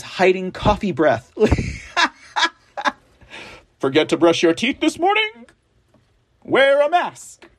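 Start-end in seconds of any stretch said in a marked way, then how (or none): 1.4-2.1 short high chuckle; brief high laugh. Real, not acted. Laughs at own joke. 3.8-7.5 hammed-up ad announcer; mock ad pitch.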